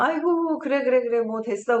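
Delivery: a lightly voiced shrugging comforter; mild mock of a careless consoler; dismissive comforting. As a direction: brush off the crying with a sigh.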